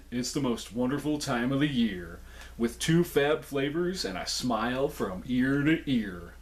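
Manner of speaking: stuffy head cold voice, slowing. Shown as a demonstration. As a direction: read it blocked up with a cold. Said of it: "such a head cold type voice at the end".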